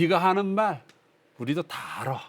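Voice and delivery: lightly acted drunkard, dismissive; drunken retort. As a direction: play a tipsy know-it-all brushing off advice. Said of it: "술 취한 사람들이 이야기를 이렇게 옮겨 적은 거예요".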